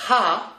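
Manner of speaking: "Ha" with an audible aspirated H; breathed H. Shown as a demonstration. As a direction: breathe out firmly into "Ha". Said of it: "Il faut respirer". (« Ha » avec un H bien expiré)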